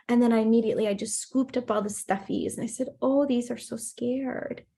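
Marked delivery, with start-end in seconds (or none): 3.0-4.6 slow, tender sympathy for toys; imitated soothing mom, drawn out; retold calm, nurturing. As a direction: comfort the stuffed animals for a child. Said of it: "trying to be as calm and nurturing".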